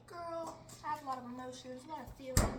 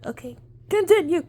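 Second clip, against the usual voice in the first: excited whisper; 7 semitones higher, 21 dB louder than usual. Real, not acted.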